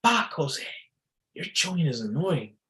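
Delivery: high-pitched mock nagging woman; annoyed girlfriend. Girlfriend annoyed at his chewing, mock high female voice. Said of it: "And she says".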